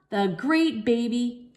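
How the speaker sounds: slow, drawn-out proclamation; a slow stately announcer voice; grand announcement. A narrator's reading. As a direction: make it a big announcement. Grand reveal slowed.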